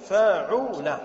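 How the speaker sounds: فاعل sounded out as fa-'u-la with a u in the middle; pattern pronunciation demo. Shown as a demonstration. Teacher giving the pattern of karuma, فاعل voiced as fa-'u-la. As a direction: pronounce فاعل in clear syllables, fa-'u-la. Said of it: "فنقول".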